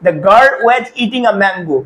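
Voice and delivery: very slow, every word drawn out; slow dictation of an example; slow demo sentence. Shown as a demonstration. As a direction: read it out slowly for the class. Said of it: "পরে যখন ওর ব্যাপারেই বলছি".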